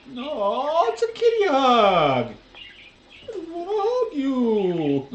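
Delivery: high, slow cute cat voice. Acted. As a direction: speak for the cat, sweet and slow. Voicing the cat's hug.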